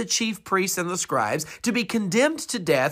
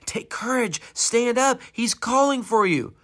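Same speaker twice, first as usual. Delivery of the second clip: high, eager urging; lightly acted eager crowd; encouraging; 6 semitones higher than usual. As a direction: cheer him on to stand.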